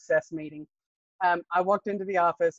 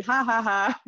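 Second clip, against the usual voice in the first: pleased little ha-ha-ha, higher; mock triumphant laugh; 4 semitones higher, slower than usual. Applicant leaving the interview she tried to fail, mock triumphant laugh. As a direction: imitate your own gloating laugh.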